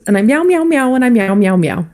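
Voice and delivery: kitty cat meows. Pretend. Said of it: "tonight I'm a kitty cat".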